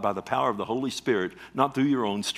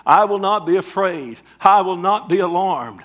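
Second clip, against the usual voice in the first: loud, high declaration of faith; ringing, confident defiance; bold and confident; 6 semitones higher, 8 dB louder than usual. Acted. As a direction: proclaim it boldly, voice lifted and forceful. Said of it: "so that you may boldly and confidently say".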